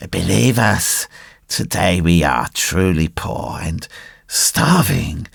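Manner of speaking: low-key, pitiful fox plea; tearful begging. A narrator's reading. Old fox insists they are starving, tearful. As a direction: plead weakly, close to tears. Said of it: "in a tearful voice".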